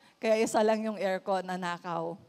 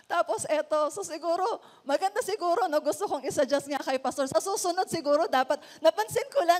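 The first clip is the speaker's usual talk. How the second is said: laughing; 5 semitones higher than usual. Real, not acted. Laughs off the irony.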